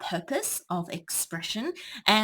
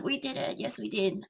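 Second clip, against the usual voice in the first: mock cheer; 3 semitones higher, 4 dB quieter, faster than usual. Shown as a demonstration. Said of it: "like a hoorah kind of".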